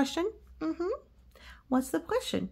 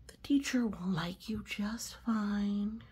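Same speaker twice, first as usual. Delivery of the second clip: soft whispered reassurance; reassuring whisper; 4 dB quieter than usual. Real, not acted. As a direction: whisper it to comfort. Reassuring pigeon.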